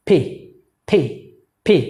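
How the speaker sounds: পি with a strong puff of air; correct pronunciation. Shown as a demonstration. Teacher modelling a candle-blowing p, strongly aspirated. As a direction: burst air through both lips on পি. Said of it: "বাতাস যাতে বের হয়".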